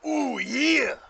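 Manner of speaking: loud, high-pitched holler of a showy stranger; bellowing visitor. Acted. Game master as mystery voice calling through the door, bellowed. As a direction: boom it out from behind the door. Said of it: "the voice calls out".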